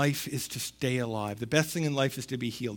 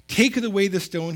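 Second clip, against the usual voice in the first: commanding; 4 semitones higher, 5 dB louder than usual. Acted. Jesus's command read aloud.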